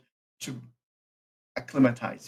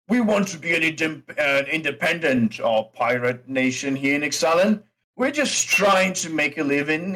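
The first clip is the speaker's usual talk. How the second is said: orc innkeeper; slower than usual. Acted. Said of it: "looks at the card and goes".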